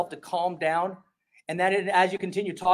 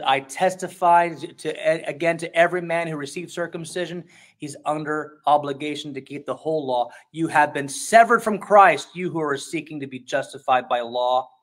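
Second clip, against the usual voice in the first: angry; 3 semitones lower than usual. Retold or imitated. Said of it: "you can hear the anger in his voice".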